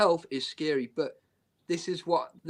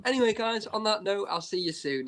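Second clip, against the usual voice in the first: higher-pitched retold livestream goodbye; blunt sign-off; 4 semitones higher than usual. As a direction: cut them off with a casual goodbye. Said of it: "a bit cruel, and then I just went".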